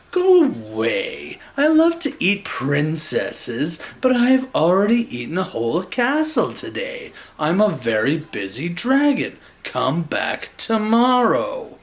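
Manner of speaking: a hint of a grumpy dragon, drawn out; a busy dragon brushing her off; lightly voiced dragon. Dragon voiced in read story.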